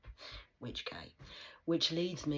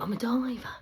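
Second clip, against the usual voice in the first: whisper; 8 semitones higher, 9 dB louder than usual. Acted. Sudden whisper after loud line.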